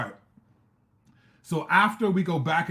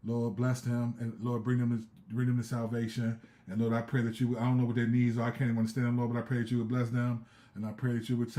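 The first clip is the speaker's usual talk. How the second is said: retold earnest prayer, a bit lower; 3 semitones lower than usual. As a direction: pray it steadily while watching the crowd. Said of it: "I was praying like this".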